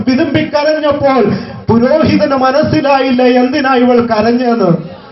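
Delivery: rolling pulpit cadence; fervent preaching. Real, not acted. Preacher applies Hannah's weeping to the congregation, fervent preaching. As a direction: build a list in insistent, repeated waves.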